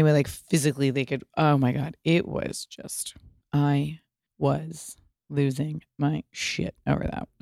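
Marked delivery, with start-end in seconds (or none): 2.0-7.3 whisper. Real, not acted. To the viewers, confiding in a hushed whisper. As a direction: whisper it like a secret thrill.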